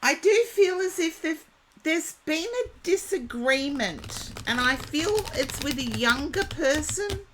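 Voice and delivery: strained, losing her voice. Real, not acted. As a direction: voice giving out. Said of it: "Oh, I'm losing my voice again".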